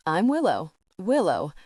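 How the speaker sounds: a light edge of irritation; mildly sharpened repeat of her name. Acted. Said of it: "There's an edge to her voice now".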